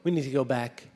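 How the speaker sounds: a frightened ghost babbling to get away; anxious ghost. Acted. Fleeing ghost pleads to leave.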